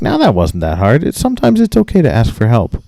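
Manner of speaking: retold patronizing lecture, pitch swooping up; condescending. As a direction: talk down to the clerk as to a child. Mock-teaching the clerk a lesson.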